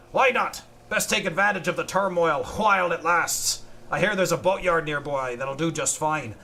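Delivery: hammy pirate captain, extra h sounds. Acted. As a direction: read like a boastful pirate. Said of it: "H's are just pronounced that way".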